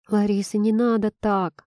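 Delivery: ordinary delivery, nothing marked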